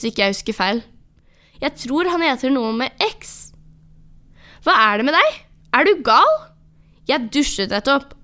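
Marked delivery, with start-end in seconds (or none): 4.6-8.1 irritert. Acted. Gutten skjeller ut fortelleren.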